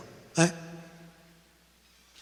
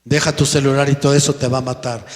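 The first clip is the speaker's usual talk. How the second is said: firm parent; 4 dB louder, faster than usual. Retold or imitated. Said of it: "En vez de decirle al hijo".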